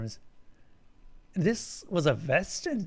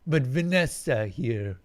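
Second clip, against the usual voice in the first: alien creature voice; 3 semitones lower than usual. Acted. Eric speaks to Alan.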